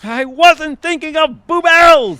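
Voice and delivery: panicked. Acted. Fearing alligator.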